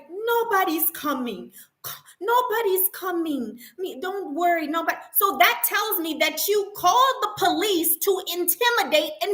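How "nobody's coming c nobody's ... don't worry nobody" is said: higher, soothing dismissive voice; mock reassuring manager. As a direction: brush it off like nothing happened. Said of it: "And she's like".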